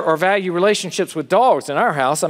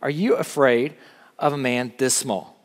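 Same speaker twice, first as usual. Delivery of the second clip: lightly voiced macho challenge, slightly lowered; a hint of macho swagger, put on for a retold schoolyard trick; 4 semitones lower, 4 dB quieter than usual. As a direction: play the tough buddy, understated. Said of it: "you'd look at your buddy in this macho voice".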